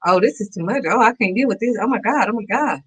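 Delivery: mildly panicked, pitch lifted; retold fretting, one complaint tumbling after another; freaking out. Speaker re-enacting her overwhelm at her troubles, mildly freaking out. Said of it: "I started freaking out".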